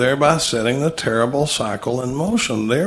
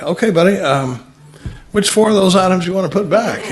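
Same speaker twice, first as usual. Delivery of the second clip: higher, louder mock tough guy; hammed-up checkout-line cop talking down to a shopper; mock confrontation; 5 semitones higher, 3 dB louder than usual. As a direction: pretend self-appointed policeman confronting a shopper, louder and higher.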